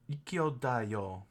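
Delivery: slow practice. Shown as a demonstration.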